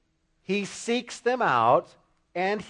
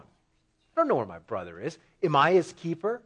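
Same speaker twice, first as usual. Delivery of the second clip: low, defiant brush-off; defiant retort; 3 semitones lower than usual. Retold or imitated. Cain brushing off God's question, defiant. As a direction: throw the question back, defiant. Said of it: "absolute defiance in his tone".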